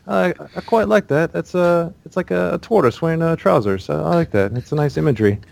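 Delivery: high, hammed-up British voice drifting into Russian; horrible British accent. Gamer quoting a British stranger's compliment, horrible British accent. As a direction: badly imitate a polite, approving British guy. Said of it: "all my accents turn Russian".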